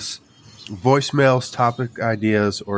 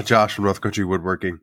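ordinary talk, nothing marked

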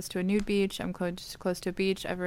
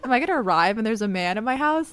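confused; 3 semitones higher, 6 dB louder than usual. Retold or imitated. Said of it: "I was so confused".

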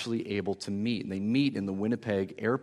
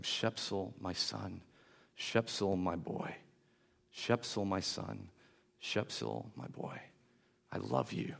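softer, gently repeating a mother's words to her son; retold softly, like a mother cradling her child; a hushed, loving mother's voice, retold; tender repeated murmur; 4 dB quieter, slower than usual. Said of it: "she's saying repeatedly".

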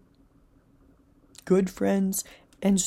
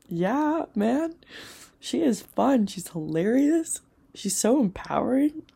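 higher and louder, playfully gushing; cheery self-praise; 5 semitones higher, 4 dB louder, slower than usual. Retold or imitated. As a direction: hype yourself up like a fan. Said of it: "And then it's like".

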